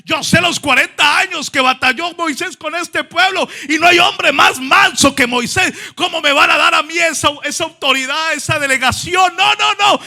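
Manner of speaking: mild fearful pleading, rising to no no no; doubting Joshua. Acted. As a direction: play Joshua begging not to be chosen. Joshua voiced trembling with doubt.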